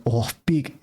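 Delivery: put-on a touch of heavy Russian accent. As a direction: mimic the father's Russian accent. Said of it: "like a super heavy Russian accent".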